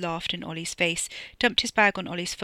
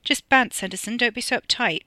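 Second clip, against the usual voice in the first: loud, higher, mocking ease; breezy, pushy teasing; smirking banter; 5 semitones higher, 6 dB louder than usual. A narrator's reading. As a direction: tease with a smirk.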